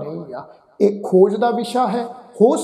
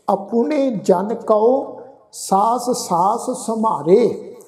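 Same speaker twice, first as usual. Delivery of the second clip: slow scripture recitation; slower than usual. Acted. Recites the verse again.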